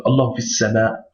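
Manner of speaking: fis sama with a short i running straight into the sama; correct reading. Shown as a demonstration. Teacher gives students the correct short fi reading. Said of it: "on va au sin".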